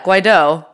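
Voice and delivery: Guaido stressed on its final O; stress on second syllable. Shown as a demonstration. Co-host corrects the host on Guaido, stress on second syllable. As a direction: land the accent on the end of Guaido. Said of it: "emphasis would be on the second syllable".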